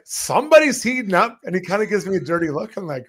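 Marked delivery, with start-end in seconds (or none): 0.0-1.4 sarcastic quip. Retold or imitated. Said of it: "And I'm like".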